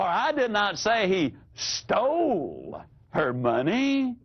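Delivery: "stole" drawn out and stressed. Shown as a demonstration. Speaker demonstrating inflection, stress on STOLE. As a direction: make "stole" sound like it was only borrowed. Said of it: "he is just borrowing it".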